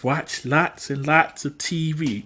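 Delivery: slow, deliberate delivery; drawn-out advice. Retold or imitated. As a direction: spell out the advice slowly. Quoting the advice given to Dax.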